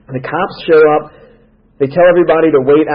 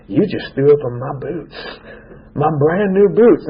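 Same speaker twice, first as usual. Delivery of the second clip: a hammed-up whimpering complaint; mock whimper; 3 dB quieter than usual. The cop mock-whimpering at the kid who threw up on his boots. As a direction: play the cop near tears over his boots.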